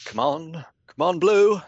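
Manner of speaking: eager rising plea to dice; will the dice to roll high; urging dice. Real, not acted. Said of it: "pleading with dice roll".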